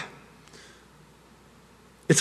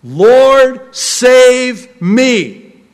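loud, high cry for help; desperate prayer; 7 semitones higher, 7 dB louder, much slower than usual. Retold or imitated. Peter starts to sink and prays, desperate cry. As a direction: cry out as if sinking. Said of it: "he prays a three-word prayer".

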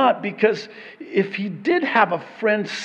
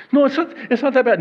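mock protest; 5 semitones higher, 4 dB louder, much faster than usual.

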